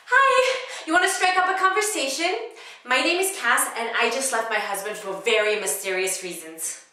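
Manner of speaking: loud, high, over-eager introduction; comedic monologue. Acted. Cass forcing a conversation on a seatmate, over-eager comic voice. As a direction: greet high and loud, then come down a little. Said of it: "it was a comedic monologue".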